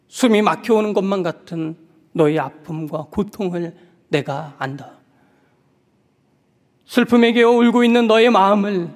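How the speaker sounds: gentle, hushed consoling words; tender comfort. Pretend. Jesus comforting the weeping widow, gently and tenderly. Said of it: "그저 따뜻하게 품어 안으시며".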